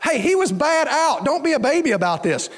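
mock fan heckle from the stands; fan yelling back. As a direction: yell it across at the coach. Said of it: "one of our fans yells back".

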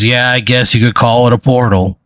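eraser creature's put-on voice; amused creature voice. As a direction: answer as the amused little creature. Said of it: "He laughs. He goes".

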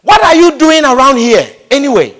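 big brother scolding David, angry demand. Retold or imitated. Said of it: "he was angry".

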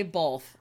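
"both" said as "bolth"; "both" with an added L before the th. Shown as a demonstration. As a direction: slip an L into "both". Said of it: "say both with an L".

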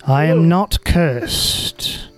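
slow, booming sword voice. Acted. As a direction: let the sword boom out slowly. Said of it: "in a much more booming sort of voice".

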